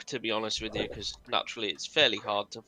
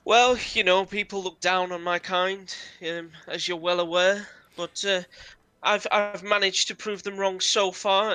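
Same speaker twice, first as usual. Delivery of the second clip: higher, lightly voiced goblin trader; the DM's goblin, a bit higher and pleased with himself; proud goblin merchant; 7 semitones higher than usual. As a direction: show off his success with pride. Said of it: "He says".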